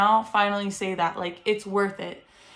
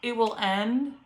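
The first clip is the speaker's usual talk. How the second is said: calm reassurance. Real, not acted. Reassures first-time moms softly.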